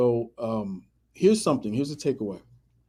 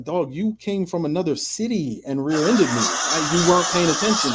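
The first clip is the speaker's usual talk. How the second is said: laughing retort; 4 semitones higher than usual. Retold or imitated. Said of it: "I was like".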